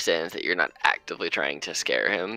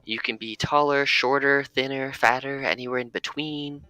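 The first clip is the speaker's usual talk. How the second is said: Ursa voice; 4 semitones higher than usual. Acted.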